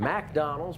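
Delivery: McDonald's with a clear high "Mack"; copied Southern pronunciation. Retold or imitated. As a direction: echo McDonald's as MACK-Donald's, rising. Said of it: "we say McDonald's".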